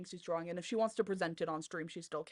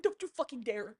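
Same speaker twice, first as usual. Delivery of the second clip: mock outraged yell; 4 semitones higher, 3 dB louder than usual. Mock outrage at a friend's joke.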